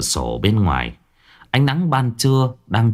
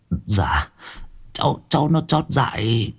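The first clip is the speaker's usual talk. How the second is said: timid excuse; 3 semitones higher, 3 dB quieter than usual. A narrator's reading. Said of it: "Lão tái mặt".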